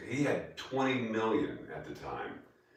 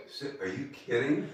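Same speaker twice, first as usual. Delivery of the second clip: laughing disbelief; 6 semitones higher than usual. Retold or imitated. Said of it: "I'm like".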